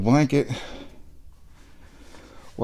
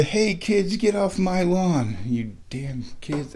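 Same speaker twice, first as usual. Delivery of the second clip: mild mock grouch, higher and slow; grumpy old man; 5 semitones higher, slower than usual. Homeowner jokingly imitates the get-off-my-lawn guy, mild mock grouch. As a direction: lightly imitate a cranky lawn owner. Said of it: "I'm not the ... that guy".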